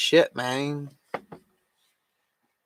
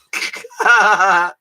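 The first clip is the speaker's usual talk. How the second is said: loud laugh; 5 semitones higher, 5 dB louder than usual. Real, not acted. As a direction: let a big laugh out. Laughs at own begging.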